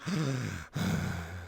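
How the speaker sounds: long, low, soft exhale; mock bored breath, drawn right out; imitated idle sigh. Coworker ignoring line of customers, mock bored exhale.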